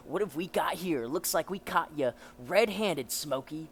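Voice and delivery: lightly voiced taunting policeman; a hint of a smug lawman; gloating cop. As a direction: crow over catching a thief. Voices a cop catching a thief.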